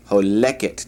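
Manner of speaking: "Holeket" stressed on LEK; stress on second-to-last syllable. Shown as a demonstration. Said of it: "accent is on the second to the last syllable".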